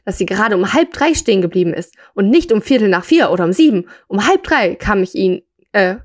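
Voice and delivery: measured read-aloud storytelling voice; story narration. A narrator's reading. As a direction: read the short story out to listeners.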